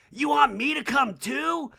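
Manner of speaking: high, hammed-up surprised question; mock astonishment, pitched high; Kyle. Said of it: "And Kyle's like".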